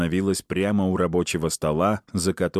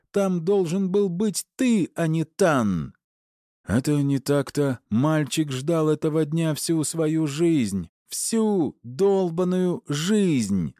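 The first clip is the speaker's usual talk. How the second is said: furious yelling; 10 semitones higher, slower than usual. A narrator's reading. Wife yelling at husband.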